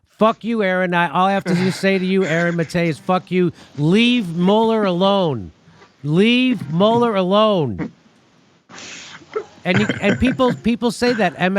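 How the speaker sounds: hammed-up outrage, slowing on the last plea; mock outraged host. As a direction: imitate a fed-up newscaster losing it. Mocking the played clip's angry host.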